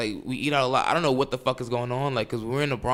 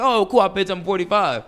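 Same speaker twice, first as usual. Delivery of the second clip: mock cheerful; 8 semitones higher, 6 dB louder than usual. Retells first naive reaction to loans.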